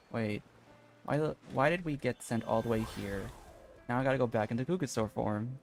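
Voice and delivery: normal talking voice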